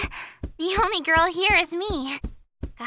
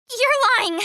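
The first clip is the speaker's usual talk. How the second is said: angry denial; 4 semitones higher, 5 dB louder than usual. Acted. Denies her mother's death.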